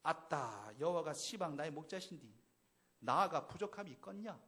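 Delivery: a playful Jeolla accent with a bold 아따; mock Jeolla country talk; 전라도 사투리 흉내; Jeolla dialect. Shown as a demonstration. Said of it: "전라도 사투리라면 어떨까요?".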